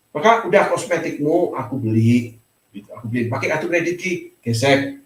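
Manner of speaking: low, easygoing reassurance to a wife; indulgent husband. Retold or imitated. Husband telling his wife he will pay for her cosmetics, reassuring. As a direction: quote a husband lightly offering to pay, low-pitched.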